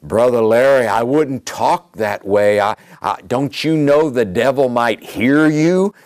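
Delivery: lightly voiced fretful believer, gasping whoa; mock-scandalized church member; a hint of a shocked religious person; imitating a timid churchgoer. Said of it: "somebody may be thinking".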